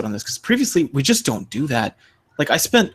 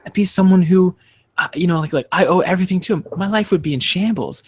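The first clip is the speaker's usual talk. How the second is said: earnest believer; 5 semitones higher than usual. Retold or imitated. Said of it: "she was like".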